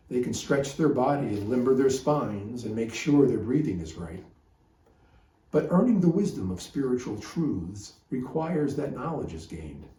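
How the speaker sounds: steady, measured rhyming cadence; poem recitation. Acted. Teacher reads his yoga poem to the group, measured poetic recitation. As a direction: recite the verse evenly, letting each rhyme land.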